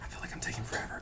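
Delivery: whispering. Real, not acted. Muttering to self while stalling.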